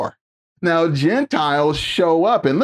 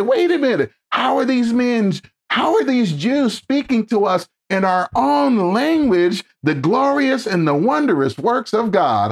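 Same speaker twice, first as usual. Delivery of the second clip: higher, amazed voice of the crowd; astonished crowd; 6 semitones higher than usual. Retold or imitated. Preacher voicing the astonished Gentile crowd, amazed and higher.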